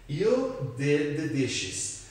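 slow, careful teacher model of a sentence. Shown as a demonstration. Teacher reading the example slowly for learners, slow and deliberate. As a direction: spell it out slowly for the students.

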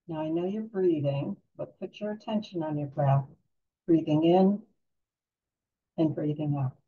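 calm guided-relaxation voice with long pauses; unhurried, soothing meditation guide. Real, not acted.

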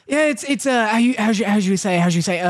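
lightly mock French accent; a French speaker searching for the phrase. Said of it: "like, a French person who's like".

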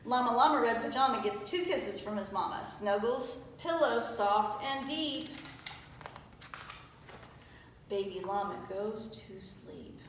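lilting read-aloud, slowing and softening to the end; bedtime storybook reading. A narrator's reading. Teacher reading llama's goodnight kisses, winding-down bedtime voice. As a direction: settle the rhyme gently into sleep. Reads picture book to children.

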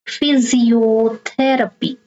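Physiotherapy sounded out slowly, stress on THER; measured teaching demo of Physiotherapy, leaning on THER; third-last syllable stressed. Shown as a demonstration. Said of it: "you stress the third syllable from the".

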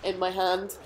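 talking into a soda can; muffled, can at the lips; can at mouth. Real, not acted. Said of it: "sometimes I sound a bit like I'm talking into a megaphone".

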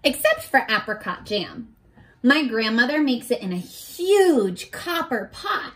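gentle storybook read-aloud; reading to children. Acted. Teacher reading a picture book to her class, storybook voice.

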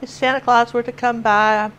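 granddaughter's Southern drawl, imitated. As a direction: reason like a mopey toddler with a Southern twang. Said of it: "she's in this drawl".

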